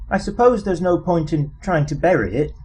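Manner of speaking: ordinary delivery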